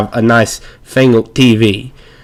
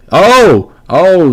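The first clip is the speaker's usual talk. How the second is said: surprised oh; 5 semitones higher than usual. Real, not acted. Sudden reaction to game event.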